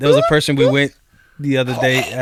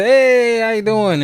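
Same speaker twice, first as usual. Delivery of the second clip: much higher and louder forced greeting; fake host cheer; 10 semitones higher, 6 dB louder, slower than usual. Greeting a surprise guest at home, forced high cheer. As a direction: put on the company smile. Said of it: "now I gotta do like the".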